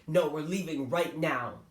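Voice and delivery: mother shutting down her son's protest; slow, emphatic mom command; firm final order. Retold or imitated.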